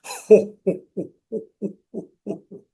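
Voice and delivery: jolly ho ho ho; Santa Claus laugh. Shown as a demonstration. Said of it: "loudly, loudly".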